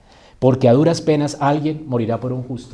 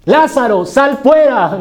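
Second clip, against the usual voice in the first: grito de mando, agudo y potente; llama a voces a quien está lejos; Jesús; 10 semitones higher, 10 dB louder, slower than usual. Acted. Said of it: "qué le dice Jesús". (orden solemne clamada)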